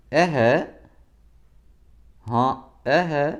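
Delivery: a lightly voiced old woman's "اے ہے"; exclamation of dismay. Shown as a demonstration. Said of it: "استجابی علامت ہے".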